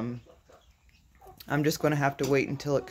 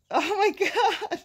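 amazed; slower than usual. Real, not acted. Disbelief at escaped quails.

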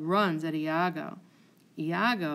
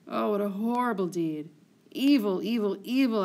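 anguished cry. Acted. Emilia cries out at the deed.

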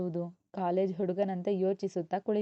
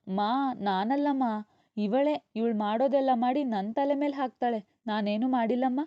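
lightly voiced small boy pleading innocence, higher; a child protesting to his mother, higher pitch; innocent little boy; 4 semitones higher, 3 dB louder than usual. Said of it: "ಪಾಪ ಅಮಾಯಕನಂತೆ ನುಡಿದ".

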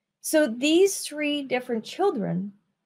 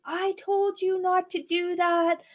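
high, pitched-up mock scolding of a child; angry mom scolding; 7 semitones higher than usual. Mom yelling at child who touched the stove, mock angry. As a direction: play the furious mom snapping at her kid. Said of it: "is totally angry".

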